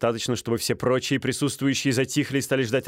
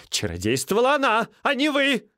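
put-on high, raised young noble; heated insistence; 12 semitones higher, 3 dB louder than usual. Стольский insisting the woman cheated, high and heated. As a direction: jab it out, indignant.

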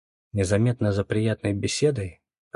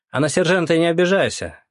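higher, louder call after him; 8 semitones higher, 5 dB louder than usual. A narrator's reading. Lyokha calling after the departing captain, loud and high. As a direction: shout it after someone walking away. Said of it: "крикнул вслед Лёха".

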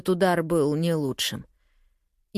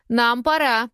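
high, loud call to leave; urgent high shout; 7 semitones higher, 4 dB louder than usual. Acted. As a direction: yell it to cut them off. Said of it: "крикнула Сави".

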